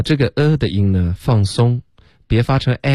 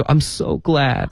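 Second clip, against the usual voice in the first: lightly acted gladness, higher pitch; Rachel's line; 6 semitones higher, slower than usual. Teacher acting out the dialogue's last line, higher and glad. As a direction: play a delighted friend, pitched up. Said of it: "最后一句话，Rachel就说".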